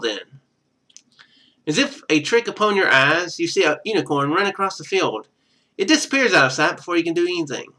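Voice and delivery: usual speaking voice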